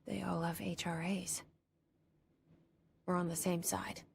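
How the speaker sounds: inner whisper. Acted. Inner thought noticing something.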